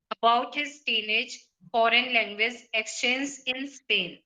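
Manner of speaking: choppy reading, stopping mid-phrase; misplaced pauses. Real, not acted. Student reading an unfamiliar article to the teacher, halting mid-phrase. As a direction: break the sentence in the wrong places. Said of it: "you were not pausing at the right places".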